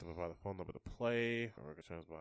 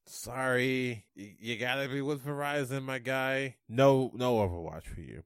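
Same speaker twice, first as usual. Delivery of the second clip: mock bro rep; 2 semitones higher, 3 dB louder, slower than usual. Mocking company rep voice.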